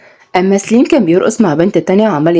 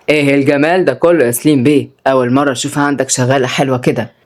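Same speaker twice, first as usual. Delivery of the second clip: flirting man; 5 semitones lower than usual. A narrator's reading. Businessman Fares flirts.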